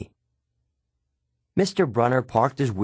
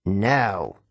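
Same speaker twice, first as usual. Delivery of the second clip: curt order in a teacher's put-on voice; mild bark; 2 semitones lower than usual. A narrator's reading. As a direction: narrate a sharp command, only slightly raised. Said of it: "Missus Dodds barked at me".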